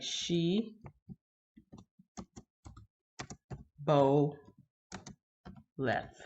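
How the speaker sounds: "she ... bo ... left", long pauses between syllables. Shown as a demonstration. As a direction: break "she bo left" into separate slow pieces. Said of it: "this is the c-, correct way".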